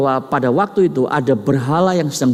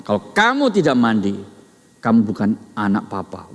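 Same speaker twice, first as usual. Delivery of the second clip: ordinary delivery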